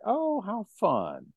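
put-on slow, lightly done Boston accent on "Oh, how fun". Podcast host slipping into a Boston accent. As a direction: drawl it like a Boston local. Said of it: "now she has a Boston accent".

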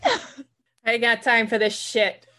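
put-on slow, playful Boston-accented grumble. Sherpa fed up with climbers, slow Boston accent. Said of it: "I love a Sherpa with a Boston accent".

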